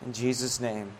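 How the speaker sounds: earnest, evenly phrased public prayer; closing prayer. Real, not acted. Pastor thanking God before the congregation, earnest prayer. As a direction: pray aloud in steady, repeated phrases of thanks.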